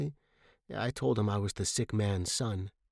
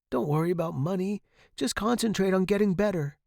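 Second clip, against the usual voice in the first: high, quick reassurance; anxious reassurance; 8 semitones higher, faster than usual. A narrator's reading. Student to sick professor, reassuring. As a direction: reassure him, pitch raised.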